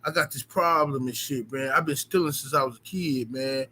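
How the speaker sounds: low, soft, sheepish confessing mumble; mock sorry thief. Thief confessing his stealing problem, low sheepish mumble. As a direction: grovel quietly like a caught kleptomaniac. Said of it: "you can't apologize to me and say".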